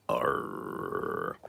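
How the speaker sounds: low, soft pirate growl; pirate arr. Pretend. Streamer playing pirate for chat, low growled arr. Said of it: "I am a pirate".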